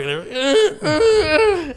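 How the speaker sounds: high-pitched feeble lifting groans; mock straining grunts. Mimicking skinny kids in the gym, feeble straining. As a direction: strain as if the weight won't budge.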